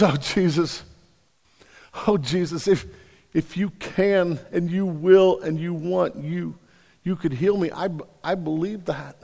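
soft, slow, pleading leper; hushed plea. Acted. Leper pleading softly with Jesus, hushed and slow. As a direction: beg quietly, barely daring to ask.

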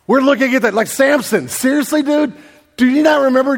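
incredulous scolding of a foolish friend; can't believe he could forget; exasperated disbelief. Acted. Preacher scolds Samson in disbelief.

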